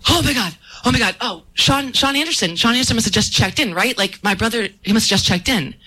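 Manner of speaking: mildly anxious retelling; retold flustered worry. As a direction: play back a flustered, hurried check at the desk. Retold flustered plea at gate.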